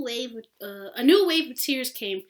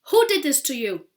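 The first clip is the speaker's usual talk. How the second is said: alarmed; 5 semitones higher, 11 dB louder, faster than usual. Acted. Boy demands in alarm.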